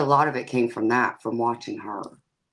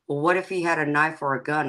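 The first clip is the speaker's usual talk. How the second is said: quick, slightly raised, anxious mother voice; worried mother's question; 3 semitones higher, faster than usual. Retold or imitated. Mom fretting to her daughter, in a quick anxious voice. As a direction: rush it like a frightened mom imagining the worst. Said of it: "And she's like".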